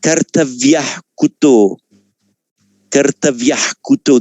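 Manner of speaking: "Kartavyah kuto" run together with the h flowing straight into "kuto"; "Kartavyah kuto" spoken as one word group, no trailing vowel; no shadow vowel. Shown as a demonstration. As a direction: join "Kartavyah" to "kuto" with no ah echo between. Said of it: "you don't get the shadow vowel".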